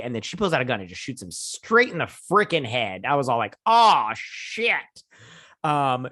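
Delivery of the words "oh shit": loud, high, drawn-out exclamation; retold shock. Viewer reacting to the shooting, loudly shocked. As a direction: act out a stunned reaction, voice jumping up.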